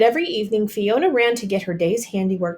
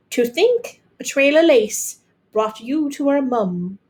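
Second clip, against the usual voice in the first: slow dreamy wonder; slow, dreamy girl's voice; dreamily; 6 semitones higher, 4 dB louder than usual. A narrator's reading. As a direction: savour it like a fairy tale.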